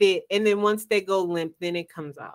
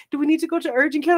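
higher, hurried concern; quick, high and solicitous; sweet, caring guy; 5 semitones higher, much faster than usual. Retold or imitated. Guy offering urgent care, sweet and hurried. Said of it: "he was super sweet".

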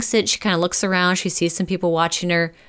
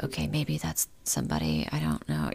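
whispered inner thought; 12 semitones lower, 10 dB quieter than usual. Retold or imitated. Ellen unsure in the pub.

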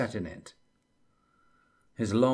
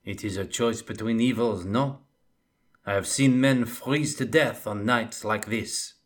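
wry scout spinning ominous tales; Bretonnian scout; 3 semitones higher, 4 dB louder than usual. Acted. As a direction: scout warns Felix of the Darklands, wry and ominous. Jules voiced in the story.

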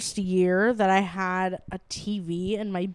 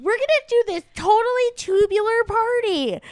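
put-on higher, giddy Valley Girl accent; 11 semitones higher, 5 dB louder than usual. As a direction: play the Valley Girl poodle dog. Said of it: "a Valley Girl accent every time they voiced".

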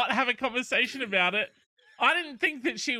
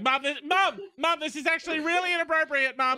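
put-on pleading teen quote; 7 semitones higher, faster than usual. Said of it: "And so you're like".

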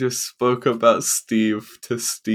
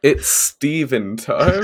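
drawn-out, raised podcast title call; mock show intro; 4 semitones higher, 4 dB louder, slower than usual. Friend naming a pretend podcast about Steve, mock show intro. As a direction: announce it like a silly jingle.

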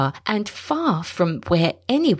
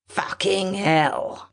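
snarl mixed with fear; 2 semitones higher, much slower than usual. A narrator's reading. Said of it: "The snarl was mixed with fear".

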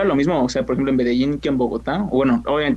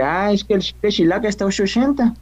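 put-on Chihuahua accent; 6 semitones higher than usual. Friend showing off the Chihuahua accent on request, higher-pitched Chihuahua accent. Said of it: "pero sí el chihuahuense".

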